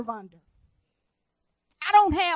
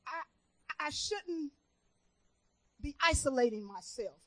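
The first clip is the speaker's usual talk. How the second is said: hushed, halting and tearful; choked up with grief; 10 dB quieter than usual. Real, not acted. Preacher confessing her grief to the church, choked up. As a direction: voice sinks, faltering as if near tears.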